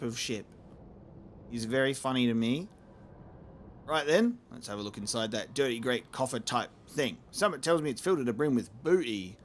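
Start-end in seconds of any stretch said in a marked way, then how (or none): 3.9-7.2 lightly voiced pirate captain, low and gruff; a gentle touch of swaggering pirate; sky pirate voice. Pirate eyeing the treasure chest, lightly voiced. Pirate character voice reading dialogue.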